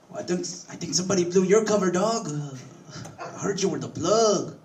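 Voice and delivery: hint you know his secret; sly coworker. Retold or imitated. Jose teases his boss about being the plug, high sly voice. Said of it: "he was like".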